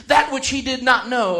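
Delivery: proclaiming shout. Retold or imitated. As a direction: thunder out the command from heaven. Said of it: "and began to proclaim".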